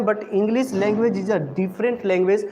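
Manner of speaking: very slow, deliberate point; slow emphatic teaching. Shown as a demonstration. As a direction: drive the point home slowly. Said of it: "teacher stressing a point". (धीमा, ज़ोर देकर समझाना)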